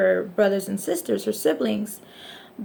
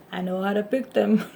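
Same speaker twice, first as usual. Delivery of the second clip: sarcastic. Real, not acted. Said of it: "Sarcasm for not at all know how".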